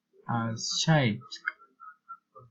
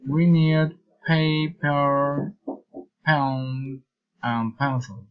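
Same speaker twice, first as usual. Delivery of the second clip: slow list stretching "paper"; deliberate list, "pencils" lowest; listing intonation; slower than usual. Shown as a demonstration. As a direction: separate each item, dropping on "pencils". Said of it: "reason, intonation".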